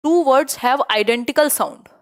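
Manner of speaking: very slow, with Two stressed and falling; slow classroom reading of a test question. Shown as a demonstration. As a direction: read it out word by word for the class. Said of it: "question number three देख लीजिए".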